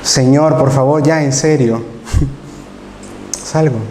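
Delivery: pleading, breaking into a laugh; beg, then laugh it off; half-laughing plea. Retold or imitated. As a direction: mock-desperate prayer with a laugh. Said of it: "orándole a Dios".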